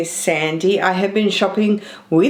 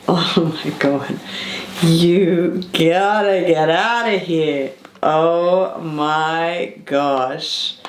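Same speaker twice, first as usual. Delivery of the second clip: awed; 3 semitones lower, slower than usual. Real, not acted. Awed by the handbag.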